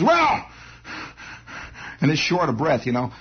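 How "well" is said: high, strained "Well" from a sick fat man; wheezy pitchman. Retold or imitated. To the viewers, a sick pitchman drawls a high "Well". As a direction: play the sick pitchman catching his breath. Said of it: "and he says".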